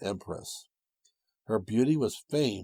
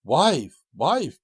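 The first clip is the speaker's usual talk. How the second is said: loud, high call to his wife; 7 semitones higher, 9 dB louder than usual. Acted. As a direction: call her from outside the door. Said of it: "cried Takitori".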